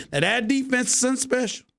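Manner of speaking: lightly hammed Southern accent; cowboy accent. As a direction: toss off 'that defense is something special' like a Texan fan. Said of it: "my regular cowboy accent".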